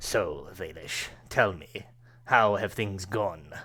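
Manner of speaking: crackling voice that spits. A figure on a throne asks the kneeling valish how things have gone, crackling voice. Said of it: "you hear this uh, crackling voice".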